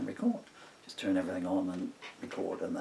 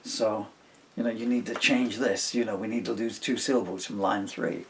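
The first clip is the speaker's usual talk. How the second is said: retold bandmate; 7 dB louder than usual. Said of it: "So he'd say".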